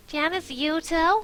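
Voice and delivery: high, loud, drawn-out squeal. Acted. Morgan reacts to Tamara's list of dates, squealing. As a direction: squeal the name in disbelief. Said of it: "I squealed".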